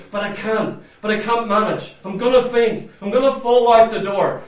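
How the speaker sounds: hammed-up cry of giving up; mock whining. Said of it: "you go".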